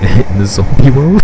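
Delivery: slow, loud zombie moan. Pretend. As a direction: drag out world like a zombie. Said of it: "That wasn't even a zombie voice".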